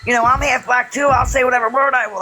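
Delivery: retold snapping. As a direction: mildly mimic him snapping back defiantly. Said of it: "He was snapping".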